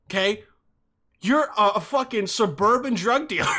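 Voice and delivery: a touch of hammed-up frustration at the dealer; exasperated retort. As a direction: build from disbelief to a shout.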